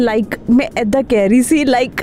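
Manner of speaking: mock Anglicised Punjabi. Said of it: "वो एक word बड़ा आ जाता है".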